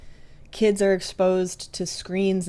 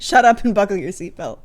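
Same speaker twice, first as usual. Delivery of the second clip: gruff dad; 3 semitones higher, 8 dB louder than usual. Retold or imitated. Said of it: "He said".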